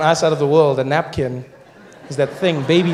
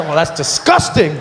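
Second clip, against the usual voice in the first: mock disgust; 6 dB louder, slower than usual.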